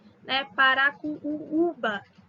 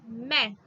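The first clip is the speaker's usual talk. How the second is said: "Mé" pulled out and stressed alone; isolated stressed syllable; 2 semitones lower than usual. Shown as a demonstration. Teacher isolating tonic syllable for students. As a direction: give just "Mé", firmly. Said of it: "Mé é a mais forte".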